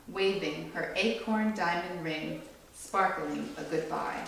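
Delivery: gentle storybook read-aloud; read-aloud to a small audience; reading to children. A narrator's reading. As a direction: read it like a picture book for kids. Reads picture book to children.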